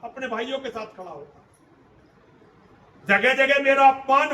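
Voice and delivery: a son's wounded fury, lashing out at his mother; Karna's bitter rebuke. Acted. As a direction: accuse her, building to bursts of loudness. (कर्ण का माँ पर कड़वा गुस्सा)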